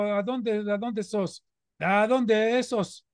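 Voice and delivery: lightly imitated Córdoba singsong, slow at the end; Córdoba accent. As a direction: mimic a Córdoba taxi driver's lilt, stretching the last line. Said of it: "con el cantito cordobés". (imitando el cantito cordobés de un taxista)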